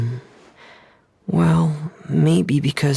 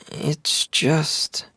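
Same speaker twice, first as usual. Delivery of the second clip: trails off into a whisper; hesitant whisper; 3 semitones higher than usual. Acted. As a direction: drop to a breath, unable to finish. Hesitant, trailing off about illness.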